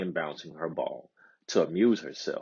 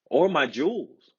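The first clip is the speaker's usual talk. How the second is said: pitched high, a light eager offer; eager princess offering; 8 semitones higher than usual. A narrator's reading. Princess offers the frog her jewels, eager and high. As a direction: tempt him with her jewels. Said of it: "she offered".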